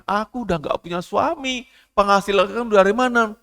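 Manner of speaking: high, loud pleading prayer; mother's plea. Acted. Widowed mother Bu Larti pleading to God for her daughter, high and loud. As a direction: beg God for your child. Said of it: "doa yang dimohonkan untuk Bu Larti".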